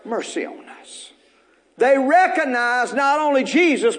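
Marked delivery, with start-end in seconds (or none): 0.1-1.1 lepers crying out. Acted. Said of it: "lifted up their voices and said".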